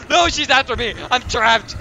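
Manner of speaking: panicked cry. Real, not acted. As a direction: call out that you're cornered. Chased and trapped in the game.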